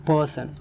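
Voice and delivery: पर्सन with its first syllable पर stressed. Shown as a demonstration. Teacher demonstrating a two-syllable noun, पर्सन stressed at the start. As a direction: put the weight on पर in पर्सन. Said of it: "इसका stress starting में होगा".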